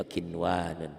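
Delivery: "kinwanun" with the first n clearly sounded; read as written. Shown as a demonstration. Teacher explains writing and reading match, "kinwanun" with a distinct n. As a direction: say "kinwanun" unmerged, n then wa. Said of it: "tulisan dan bacanya sama".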